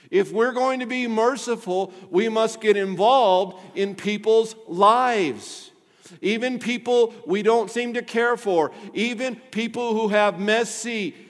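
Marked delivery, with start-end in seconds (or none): 0.1-8.7 slow, loud, drawn-out preacher's plea; fervent call. Real, not acted. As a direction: lean hard into INVOLVED like a rallying cry. Preacher repeats his urgent call.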